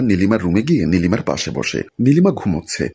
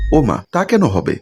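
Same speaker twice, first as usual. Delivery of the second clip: teasing mock reply, pitched higher; mocking face-pull; 5 semitones higher than usual. Friend teasing Nilima on the road, mocking. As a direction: make fun of her friend's worry. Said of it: "মুখ ভেঙচিয়ে বলল".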